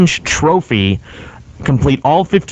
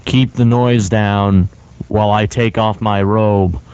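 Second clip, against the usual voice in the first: creepy seductive voice; 4 semitones lower, slower than usual. Pretend. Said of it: "Please stop right there".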